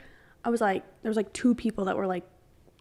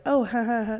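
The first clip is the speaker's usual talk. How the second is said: fake polite laugh. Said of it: "kind of like".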